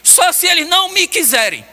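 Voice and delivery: preacher voicing Jesus's resolve to the congregation, slow and fervent; fervent preaching. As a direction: preach it with full conviction.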